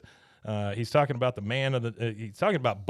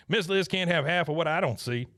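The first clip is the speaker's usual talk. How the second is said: Buck; 3 semitones higher than usual. Retold or imitated. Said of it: "He goes".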